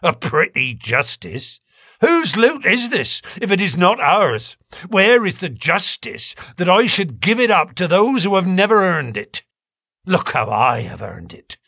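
rising furious outburst; impassioned. A narrator's reading. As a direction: pour out the grievance, building. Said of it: "came out in a wild whirl of words".

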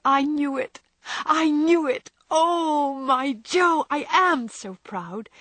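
high, loud, joyful outburst; exultant pride. A narrator's reading. Sister exulting over Jo's success, proudly excited.

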